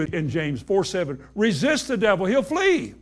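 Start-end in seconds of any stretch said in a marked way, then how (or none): 1.3-2.9 higher, rising fervour on flee; preaching emphasis. Acted. Preacher urging congregation to resist the devil. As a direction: build up to a ringing flee.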